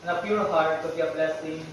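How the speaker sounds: measured, even-toned classroom prayer. Real, not acted. Teacher leading the class in opening prayer, solemn prayer delivery. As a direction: lead the prayer evenly, pausing between petitions.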